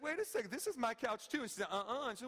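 playful retold objection; mock indignant wife. Wife objecting, voiced by husband.

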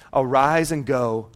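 hushed, unvoiced whisper; awed whisper of the command. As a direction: lean in and breathe the words. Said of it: "whispered scripture".

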